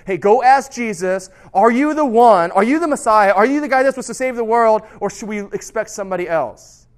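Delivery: John the Baptist in jail pleading for an answer, urgent; urgent plea. Acted. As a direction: call out the doubting questions with urgency. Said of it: "John the Baptist asks his own disciples".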